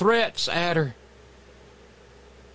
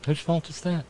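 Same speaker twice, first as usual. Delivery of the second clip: snide; 5 semitones lower, 5 dB quieter than usual. Real, not acted. Snide aside.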